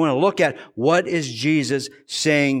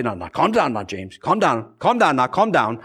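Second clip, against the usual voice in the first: gentle friend; 5 semitones lower than usual. Retold or imitated. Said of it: "he would always say".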